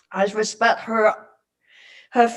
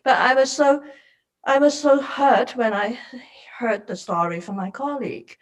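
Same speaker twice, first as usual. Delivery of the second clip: holding back tears while speaking; choked up. Real, not acted. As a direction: voice dropping to a near whisper with real hurt. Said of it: "Sorry for my emotional sharing".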